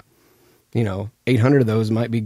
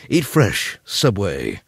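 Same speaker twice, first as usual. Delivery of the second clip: mock ad slogan; 3 semitones lower, much slower than usual. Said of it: "I was like".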